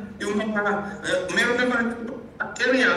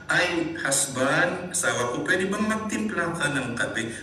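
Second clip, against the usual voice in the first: right tone, gentle; 4 semitones lower, slower than usual. Retold or imitated. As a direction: ask sweetly, slowly, as to a spouse. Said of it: "in the right tone".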